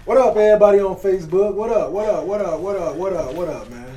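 loud hype shout-out to viewers; hype livestream greeting. Real, not acted. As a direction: pump up the live audience. Greeting Facebook live viewers.

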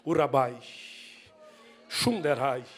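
low, murmured tongues syllables; falando em línguas. Acted. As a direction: drop low and speak in tongues. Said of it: "ele falou língua estranha". (falando em línguas, grave e murmurado)

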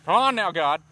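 high, loud hammed-up appeal; mock pleading. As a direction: plead with God as the failed preacher. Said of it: "then he's all like".

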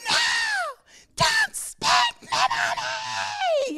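very high, drawn-out mock shriek; imitated child screaming. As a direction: scream like a small boy dreading punishment. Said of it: "he's screaming this in Target".

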